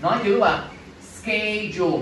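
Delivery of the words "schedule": Schedule as SKE-jool. Shown as a demonstration. Teacher compares the d with produce, "j" pronunciation. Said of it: "Hai chữ đờ này đều là âm gì".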